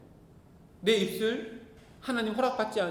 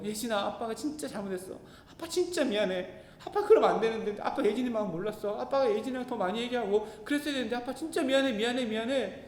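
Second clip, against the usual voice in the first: apologizing. Retold or imitated. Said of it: "엄청 싹싹 빌었어요".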